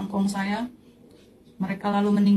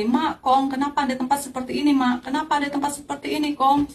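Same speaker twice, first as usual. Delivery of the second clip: higher, insistent retold appeal; urgent questioning; 6 semitones higher than usual. Granddaughter asking her suffering grandparents why, urgent retold questioning. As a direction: press the question, pitch raised throughout.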